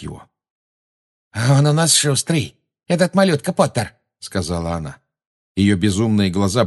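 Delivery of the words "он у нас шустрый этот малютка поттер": taunting villainess. A narrator's reading. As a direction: draw it out high to belittle him. Bellatrix taunts little Potter. (издевательски, высоко и протяжно)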